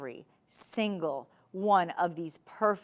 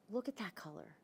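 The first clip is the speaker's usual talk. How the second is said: much softer, an awed hush; hushed awe; 13 dB quieter than usual. Real, not acted. Host showing the diamonds' colour in a hushed, awed voice. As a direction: breathe it out in wonder.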